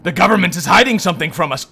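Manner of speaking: echo voice. Acted. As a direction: throw it back like an echo. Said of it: "A voice comes back".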